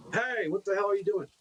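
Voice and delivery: put-on half-hearted yell at a child; mock scream. Someone berating a lost kid in a store, mock scream. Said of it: "who would just scream at him".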